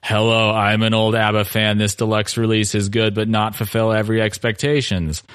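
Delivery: stiff, mechanical reading voice; stilted robotic voice. Shown as a demonstration. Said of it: "read in a very stilted robotic voice".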